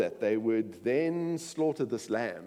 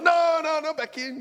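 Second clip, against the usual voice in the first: put-on high Jewish accent, shooing back; imitating a thick Jewish accent; 6 dB louder than usual. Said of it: "he spoke with this thick Jewish accent".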